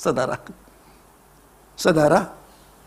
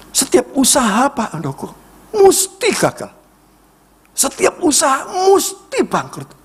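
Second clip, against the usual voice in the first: despairing man; 11 semitones higher than usual. Retold or imitated. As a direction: wail it out like a man whose every venture collapses. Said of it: "Dia cerita dengan saya".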